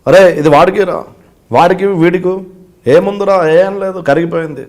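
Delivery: lightly mimicked film dialogue; deliberate phrases with pauses, actor-style; Prakash Raj. Actor passing ice among people, lightly mimicked delivery. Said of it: "ఒక్కొక్కరికి డైలాగులు చెప్పి".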